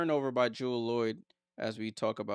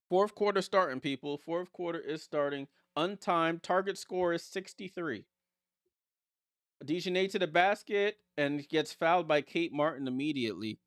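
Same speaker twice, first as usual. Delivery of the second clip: raised, announcer-like game call; live play-by-play; 5 semitones higher than usual. Real, not acted. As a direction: call the action as it restarts.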